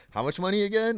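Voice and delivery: high, laughing how much; amazed, half laughing; laughing disbelief. Retold or imitated. Broke teen hearing the salary, laughing disbelief. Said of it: "And you're like".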